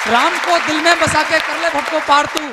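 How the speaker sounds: rhythmic declaiming of verse; poem recitation. Acted. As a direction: recite it like a stage poet.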